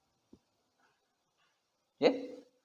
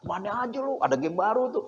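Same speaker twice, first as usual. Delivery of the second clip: soft, casual welcome; friendly attendant; 7 dB quieter than usual. Acted. Game-shop attendant welcoming a young regular, friendly and soft. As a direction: greet a regular softly and chummily. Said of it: "penjaganya ramah-ramah".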